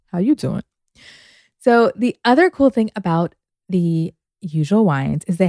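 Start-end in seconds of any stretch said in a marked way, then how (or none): 0.1-0.6 laughing talk-show host greeting; lightly voiced Wendy Williams greeting; Wendy Williams catchphrase. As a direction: toss out a playful How you doing. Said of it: "I'm thinking of Wendy Williams".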